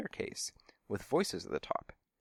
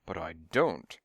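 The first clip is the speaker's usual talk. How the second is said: firm weight landing on "don't"; mildly emphatic, leaning on "don't"; 3 semitones lower, slower than usual. A narrator's reading. Stunt double refuses the cat food, stressing "don't". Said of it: "he said emphatically".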